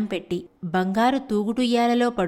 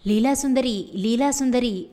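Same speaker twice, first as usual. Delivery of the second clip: calling out; 2 semitones higher than usual. Acted. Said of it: "అని కేక ఇంకో గదిలో నుంచి వినిపించింది".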